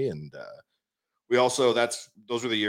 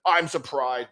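higher, attempted New York accent; bad New York accent; 5 semitones higher, slower than usual. Site owner phoning from New York, badly imitated New York accent. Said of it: "he's got the New York accent".

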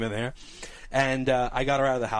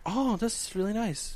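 softer, drawn-out approval; supportive; 7 semitones higher, 4 dB quieter, slower than usual. Retold or imitated. Wife humoring him from the kitchen, supportive. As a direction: play along sweetly, imitating her. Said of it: "she's being all supportive".

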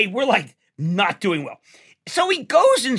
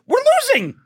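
dramatic Cronkite quote; 3 dB louder than usual. Retold or imitated. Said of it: "What he said was".

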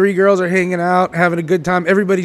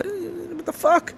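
higher, slow put-upon whine; exasperated guy; 11 semitones higher, slower than usual. Retold or imitated. Rejected guy at the bar complaining, mock higher whine. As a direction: act wounded and fed up. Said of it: "I'm like".

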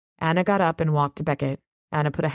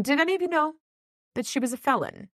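pointed question; 10 semitones higher, faster than usual. Acted. Dresden confronting the group.

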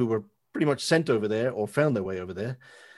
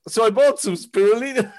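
mock sheepish quote; 9 semitones higher, 5 dB louder than usual. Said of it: "you went".

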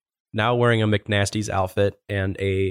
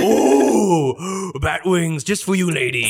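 higher, gasping mock amazement; hammy conjurer; 5 semitones higher, much slower than usual. Worker producing food from behind customer's ear, lightly hammed-up wonder. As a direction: present it with a showy little gasp. Magician figure presents order with flourish.

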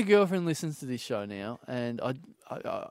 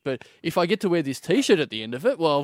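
mock eager proposal, building up; 4 dB louder than usual. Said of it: "Like I'm supposed to go".

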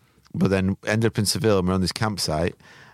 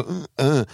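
imitated groaning noises; 7 semitones higher than usual. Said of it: "making disabled noises, go".

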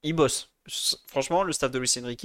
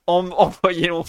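excited; 2 semitones higher, 7 dB louder than usual. Real, not acted. Gleeful send-off to Saudi Arabia.

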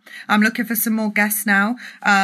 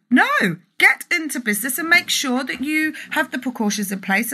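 higher, firm rebuttal; emphatic no; 4 semitones higher than usual. Real, not acted. Mum to listeners, firmly reversing the advice, emphatic. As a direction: snap back with conviction.

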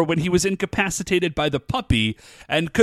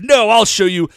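louder, raised indignant protest; mock upset; 4 semitones higher, 6 dB louder than usual. Upset monster out to prove he's bad, indignantly. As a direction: imitate a wounded villain insisting. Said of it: "he's, like, so upset".

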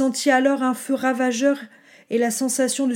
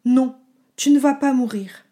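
certain, steady and a little louder; firm reassurance; 6 dB louder than usual. Acted. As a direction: leave no room for doubt. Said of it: "d'une voix qui ne laissait planer aucun doute".

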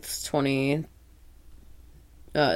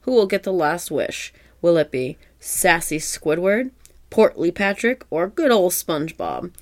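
bright TV announcer read; 3 semitones higher than usual. Retold or imitated. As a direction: sell it like a kids' show host.

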